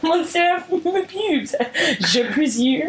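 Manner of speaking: mock French accent. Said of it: "French isn't a bad go-to".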